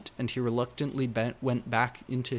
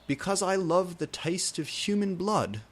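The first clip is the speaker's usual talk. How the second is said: giggling; 7 semitones higher than usual. A narrator's reading. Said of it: "he giggled".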